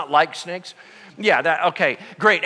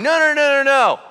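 much higher, louder string of noes; stubborn refusal; 8 semitones higher, 6 dB louder than usual. Retold or imitated. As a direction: dig in like a child refusing. People refuse.

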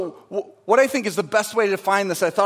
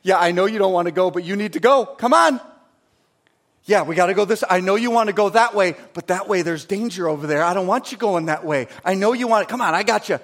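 coaxing father; faster than usual. Retold or imitated. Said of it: "He's here to you going".

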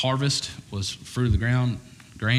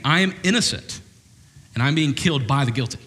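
raised, urgent plea of innocence; pleading innocence; 6 semitones higher than usual. Acted. Abel's blood cries out to God, pleading innocent. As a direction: cry out your innocence.

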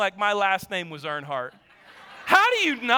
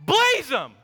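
imitated boy's yell, higher and louder; kid yelling; 6 semitones higher, 4 dB louder, slower than usual. Son urging dad on the road, mock yell. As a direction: shout it like an eager kid. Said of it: "and he goes".

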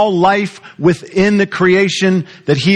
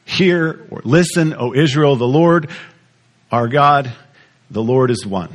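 scripture recitation. Acted. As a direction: lay each word of the verse down deliberately.

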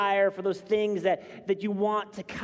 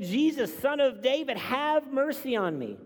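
high, raised plea for mercy; crying out; 9 semitones higher, 3 dB louder than usual. Acted. Blind beggar calls to Jesus from the roadside, crying out. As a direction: cry out in appeal, pitched well up. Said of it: "he began to cry out".

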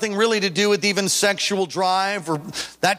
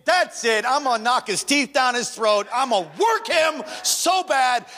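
rising angry threat, higher; fired-up retold threat to the wife; building angry rant; snapping in anger; 5 semitones higher than usual. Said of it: "And I just snapped".

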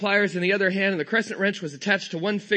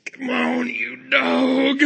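loud, higher, strained Texas drawl; Texas accent; 5 semitones higher, 4 dB louder, much slower than usual. Retold or imitated. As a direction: grunt it out in a Texan twang while straining. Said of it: "I don't have a Texas accent".

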